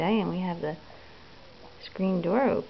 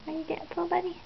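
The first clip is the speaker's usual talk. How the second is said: higher and softer, tender; 8 semitones higher, 8 dB quieter, faster than usual. Real, not acted. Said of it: "asked again softer and higher".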